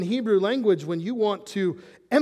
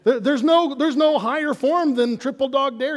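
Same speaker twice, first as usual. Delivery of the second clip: excited emphasis; 7 semitones higher, 6 dB louder than usual. Real, not acted. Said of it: "emphatic point on dares".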